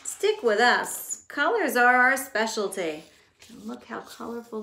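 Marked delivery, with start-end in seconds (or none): 0.0-3.1 confident crayons. Acted. Crayons promising the unicorn his colors. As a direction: reassure him proudly.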